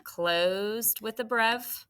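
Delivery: slow model. Shown as a demonstration. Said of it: "What kind of syllable is con?".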